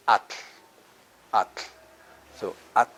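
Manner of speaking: At ending in a hissed tl, air out the sides of the tongue; lateral TL release. Shown as a demonstration. Teacher demonstrating the word for water, lateral TL release. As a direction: say At with a voiceless tl, no vowel after it. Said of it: "Release the air at the sides".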